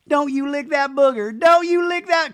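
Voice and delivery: high, loud scold of a pet; mock scolding dog. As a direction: snap at the puppy not to lick.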